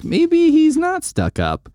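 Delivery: a hammed-up swooning girl; mock girlish Gwen. Gwen to herself about Peter at the museum, high slow mock girl voice.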